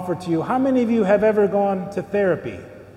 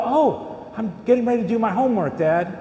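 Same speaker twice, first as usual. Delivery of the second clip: a rushed, innocent-sounding fib, fast; kid's quick excuse. Retold or imitated. Kid caught on the phone fast-talks his dad, rushed innocent fib.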